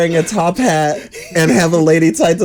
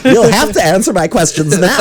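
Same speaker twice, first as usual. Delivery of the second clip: hammed-up villain demand, higher and louder; mock villain; 6 semitones higher, 5 dB louder than usual. Villain to captive on the tracks, mock menace. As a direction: play a villain interrogator through laughter. Plays villain interviewing tied women.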